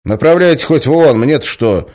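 loud, high irritated retort; snapping back. Acted. Guard snaps back at the complaining prisoner. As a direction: snap back, dismissive. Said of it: "огрызнулся конвоир".

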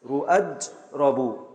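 ركنيبل spoken very slowly, syllable by syllable; slow scansion. Shown as a demonstration. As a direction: drag out ركنيبل to show the beats. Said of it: "على وزن". (تقطيع بطيء جدا)

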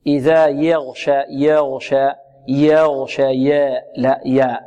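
يغشى with the first fatha tilted toward e, slow; fronted fatha fault. Shown as a demonstration. تقليل الفتحة.

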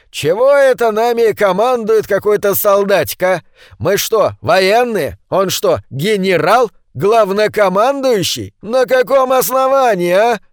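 who made him general; indignant grumbling. A narrator's reading. Сонин grumbles against soldier. (возмущённо, громко)

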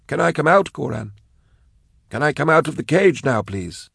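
put-on high, thin childlike pleading; frail pleading man.

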